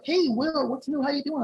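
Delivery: high, loud chirpy hello; imitated hearty greeting. Front desk ladies greet Will, imitated high and loud.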